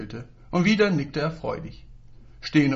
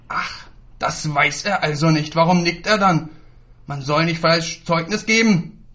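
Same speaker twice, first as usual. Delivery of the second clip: wütender Tadel; 3 semitones higher, 6 dB louder than usual. Acted. Lehrer tadelt Jungen wütend. (Lehrer tadelt den Jungen langsam und laut)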